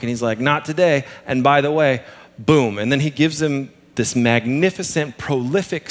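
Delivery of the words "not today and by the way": put-on light Southern accent. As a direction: play it as a good old boy with a Southern twang. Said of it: "that's how I read Peter".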